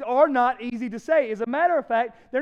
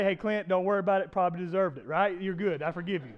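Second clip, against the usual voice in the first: offhand, lower pretend reassurance; casual forgiveness; 4 semitones lower than usual. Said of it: "as if she could say".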